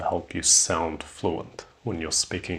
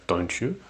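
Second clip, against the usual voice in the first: YOU lifted at the end; rising tag intonation. Shown as a demonstration. Teacher pointing out the tag, rising intonation. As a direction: turn DON'T YOU upward into a real question. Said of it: "it is going up".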